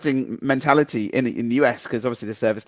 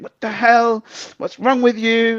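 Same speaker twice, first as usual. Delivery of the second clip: shrill outraged yell, much higher; a taxi driver yelling furiously; screamed at; 11 semitones higher, 4 dB louder, slower than usual. Retold or imitated. Taxi driver screams at the passenger who skipped the tip, high outraged yell. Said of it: "the guy screamed at him".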